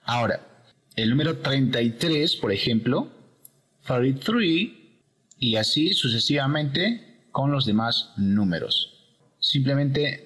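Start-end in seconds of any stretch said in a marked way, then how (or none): 3.9-5.0 "thirty-three" slow, thirdy-three; slow soft T. Shown as a demonstration. Teacher models thirty-three slowly. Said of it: "sin el sonido que produce la letra T".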